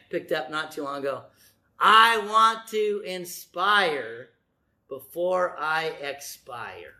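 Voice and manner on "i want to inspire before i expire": slow, drawn-out saying; slow slogan. Shown as a demonstration. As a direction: let each word land slowly. Preacher savoring his slogan.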